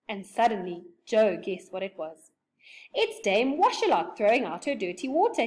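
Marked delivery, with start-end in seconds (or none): 2.9-5.5 yelled warning. Acted. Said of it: "he yelled".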